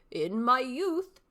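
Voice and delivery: put-on slow, deliberate old man; old father. Shown as a demonstration. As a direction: savour the words like a wise old father. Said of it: "three distinct character voices".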